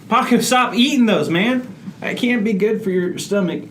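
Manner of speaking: high-pitched, exasperated scolding; exasperated plea. Real, not acted. Sufferer tells Paco to stop eating nuggets, exasperated plea.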